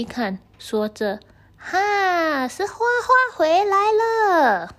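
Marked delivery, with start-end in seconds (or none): 1.6-4.7 much higher, louder, near tears of joy; joyful cry. Acted. Grandpa seeing Huahua come home, tearful joyful cry. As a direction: cry out with overjoyed relief. Grandpa sees snake return.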